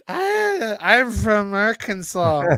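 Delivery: put-on high, slow squeal of an American girl saying Ah, I'm from Arkansas; American girl imitation. Imitating American girls who come to Montreal, high and slow. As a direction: ham up a visiting American girl. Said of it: "the American girls, they come to Montreal, like".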